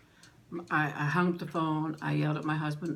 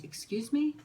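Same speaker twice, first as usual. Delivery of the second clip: sharply raised, stunned "Excuse me?"; disbelieving, pitch leaps up; shocked question; 10 semitones higher than usual. Retold or imitated. Shocked reply to terrible news.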